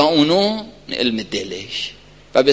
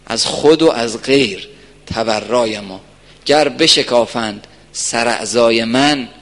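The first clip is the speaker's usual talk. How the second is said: slow, measured poem recitation; lightly declaimed poetry with drawn-out phrases; verse recitation; 2 semitones lower, slower than usual. Acted. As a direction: recite the devotional verse slowly, line by line. Recites devotional verse in sermon.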